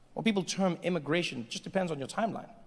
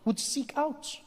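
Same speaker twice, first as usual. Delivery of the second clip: solemn story narration. Acted. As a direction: unfold the history phrase by phrase.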